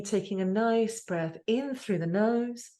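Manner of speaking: drawn-out, soothing breath instruction; unhurried meditation-guide delivery; guided breathing. Real, not acted.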